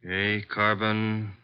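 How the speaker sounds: drawn out as if writing each syllable; slow dictation. Acted. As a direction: spell it out slowly while writing. Archie writes it in notebook.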